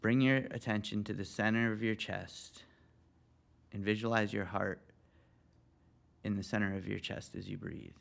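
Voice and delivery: calm meditation guidance with long pauses; guided meditation. Real, not acted. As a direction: lead them gently into the breath, leaving room to breathe. Leads a guided breathing meditation.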